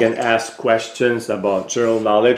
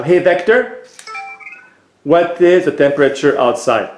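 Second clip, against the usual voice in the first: raised, higher call on hey; voice command; 4 semitones higher than usual. Real, not acted. Owner gives his robot a clear spoken command.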